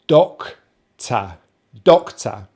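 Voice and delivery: careful model of Doctor, split then joined; teaching pronunciation. Shown as a demonstration. Showing a foreigner an English word, careful pronunciation model. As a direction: say Doctor with a strong first syllable. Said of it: "this is what I showed him".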